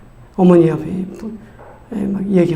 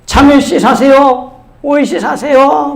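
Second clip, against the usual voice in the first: high, slow vendor's holler; imitated seed seller calling; hawker's cry; 7 semitones higher, 4 dB louder, slower than usual. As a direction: sing out the wares so someone indoors hears. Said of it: "막 그 소리 지른 거예요".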